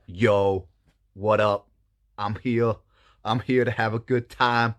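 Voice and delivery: loud, swaggering frog dude; slimy frog dude. Acted. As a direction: announce yourself like a cocky party guest. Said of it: "there's the slimy little frog dude, just like".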